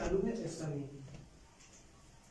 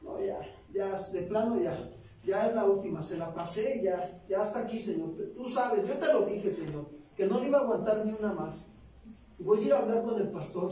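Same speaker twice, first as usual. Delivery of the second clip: queja enojada; 3 semitones higher, 4 dB louder than usual. Acted. Enojo de pareja actuado.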